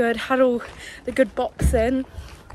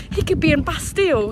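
loud call; 5 semitones higher, 5 dB louder, faster than usual. Retold or imitated. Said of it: "I went really loudly".

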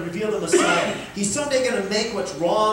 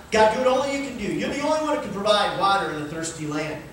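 raised, pleading cry to God; 4 semitones higher, faster than usual. Retold or imitated. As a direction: call out like the crowd at the altar. Crowd crying out to God.

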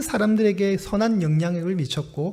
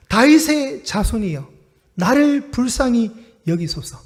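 pleading cry; 3 semitones higher than usual. Retold or imitated. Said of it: "두 번 간청하듯이 외치고 있습니다".

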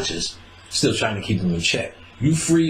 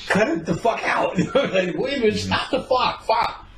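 mock annoyed; 12 semitones higher than usual. Acted annoyed retort to girlfriend.

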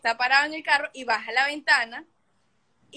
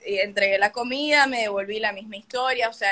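usual speaking voice

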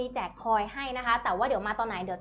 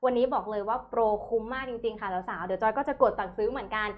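thai live seller. Acted. Host pitches product prices.

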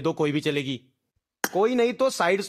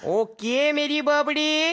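slow sing-song catchphrase; 5 semitones higher, slower than usual. Acted. Gamer repeats a silly catchphrase.

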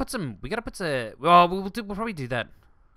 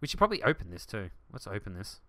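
usual speaking voice

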